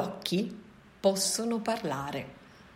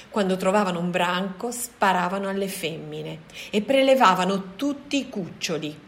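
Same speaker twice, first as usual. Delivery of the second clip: gorilla; 6 dB louder than usual. Acted. Gorilla tells his story.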